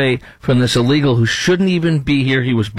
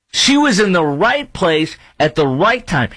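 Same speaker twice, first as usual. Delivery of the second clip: raised high, insisting she was in the right place; indignant and much higher, stressing right; indignant correction; 6 semitones higher than usual. Real, not acted. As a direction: push back hard on the reporter's words. Correcting the reporter's phrase.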